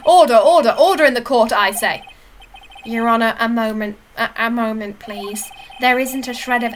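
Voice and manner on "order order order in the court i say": judge calling order. Acted. Judge calls the court to order.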